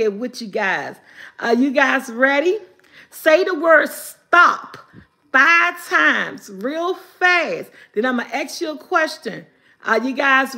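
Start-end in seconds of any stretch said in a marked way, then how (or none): 3.1-7.7 slow, deliberate instruction. Shown as a demonstration. Leading viewers in the trick, slow instruction. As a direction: lay out each word slowly.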